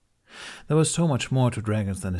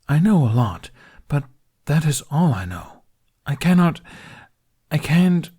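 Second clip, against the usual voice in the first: louder, forceful and straining; frustrated insistence; 4 semitones higher, 7 dB louder than usual. Acted. Dragon lecturing Hiccup on the human mind, loud and frustrated. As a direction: drive the point home.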